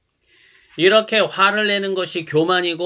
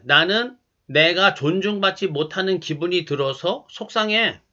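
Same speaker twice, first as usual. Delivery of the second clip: calm and gentle. Shown as a demonstration. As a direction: say it calmly, owning the feeling. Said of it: "차분하게 이렇게 말해 보시기 바랍니다".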